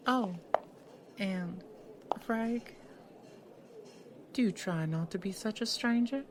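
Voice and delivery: called over the shoulder from across the room; calling back, far off. Acted. Lawyer leaving the diner calls back to Frank, far off. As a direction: let it drift in from a distance as she leaves.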